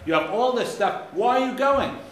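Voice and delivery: high and loud, why are you going; challenging question. Retold or imitated. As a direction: demand an answer, pitched right up. Challenging the travelers.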